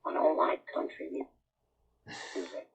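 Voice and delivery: raspy, unvoiced Marge voice; lightly voiced cartoon mom; Marge impression. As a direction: croak it like Marge Simpson. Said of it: "sound like Marge from The Simpsons".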